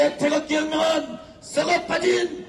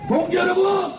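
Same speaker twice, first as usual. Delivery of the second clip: roaring rallying speech. Real, not acted. Rally leader rouses the crowd.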